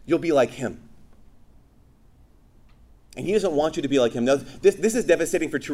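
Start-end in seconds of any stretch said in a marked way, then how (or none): 0.0-0.8 Satan's lie. Acted. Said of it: "what does Satan do".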